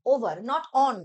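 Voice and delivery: "over" hit firm against "on"; stress on over. Shown as a demonstration. Teacher stressing the right preposition to students. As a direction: lean on "over", drop "not on". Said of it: "always over লিখি".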